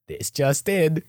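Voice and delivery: lightly imitated TV news anchor; news reporter voice. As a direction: announce it like breaking news. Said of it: "he wants to be a news reporter".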